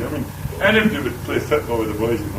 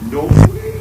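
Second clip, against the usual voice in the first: squeaky high mock voice; mock posh queen; 10 dB louder than usual. Queen scoffing to Al, silly high voice. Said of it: "Queen replies in story".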